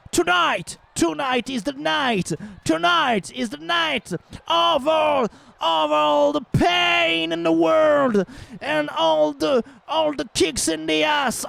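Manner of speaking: drawn-out boxing announcer call; hype announcer. Pretend. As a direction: boom it out like a fight-night MC. Mock hype announcer opening.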